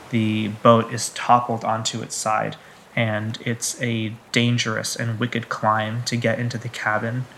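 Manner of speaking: measured scene-setting narration; game master narration. Acted. Game master describes the wrecked boat to players, measured narration. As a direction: narrate the scene deliberately, pausing between images.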